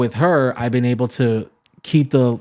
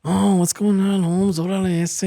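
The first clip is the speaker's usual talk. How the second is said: high, mock Chicano accent; Chicano slang imitation; 8 semitones higher than usual. Imitating young locals in a Chicano accent. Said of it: "'Cause they'll go".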